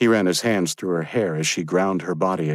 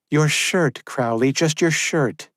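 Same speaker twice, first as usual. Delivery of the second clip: higher, firm woman's voice; young woman's voice; 9 semitones higher, 3 dB louder, slower than usual. Acted. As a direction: give a brisk order. Josephine insisting.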